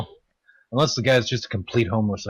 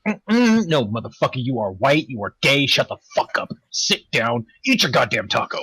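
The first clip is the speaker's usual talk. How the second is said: mock sassy attitude. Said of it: "I hate the attitude I get from some of them".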